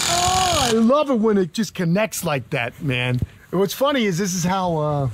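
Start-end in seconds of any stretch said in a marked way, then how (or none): 0.1-3.2 high, drawn-out opening, then easing down; Ken and Dundee. Acted. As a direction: lightly play a New York Crocodile Dundee. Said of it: "this is Ken and Dundee saying to you".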